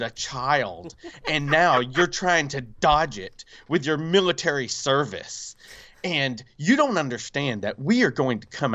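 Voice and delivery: measured, emphatic mock scolding; retold tongue-lashing. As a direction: lay into him like an accusing official. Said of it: "she's just laying into me".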